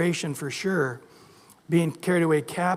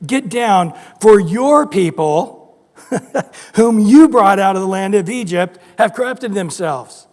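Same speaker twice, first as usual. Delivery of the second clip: God rebuking Moses loudly; stern God; 9 dB louder than usual. Retold or imitated. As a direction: thunder it down as an angry God. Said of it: "The Lord said to Moses".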